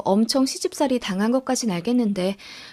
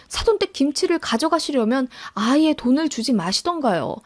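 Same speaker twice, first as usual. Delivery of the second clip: mildly indignant daughter-in-law, pitch lifted; affronted, pleading objection to an elder; indignant protest; 3 semitones higher than usual. Acted. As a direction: argue your case in disbelief. Daughter-in-law confronting mother-in-law by phone.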